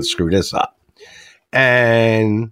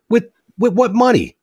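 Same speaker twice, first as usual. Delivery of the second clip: much higher, incredulous parent voice; shocked parent; 12 semitones higher than usual. Retold or imitated. Joke teller voicing the stunned parent. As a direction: stammer it in disbelief. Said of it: "the teen says".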